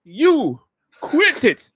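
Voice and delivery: high, loud acted protest; squealed, halting complaint while being stabbed; exasperated victim. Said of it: "he's like".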